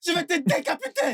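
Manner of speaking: high-pitched threat in a frenzy; enraged threat. Acted. Husband held back from his wife, enraged threat.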